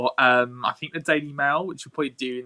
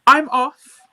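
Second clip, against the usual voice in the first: higher, louder fed-up exit; mock exit line; 13 semitones higher, 7 dB louder, much slower than usual. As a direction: announce you're leaving, hammed-up. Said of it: "So I was like".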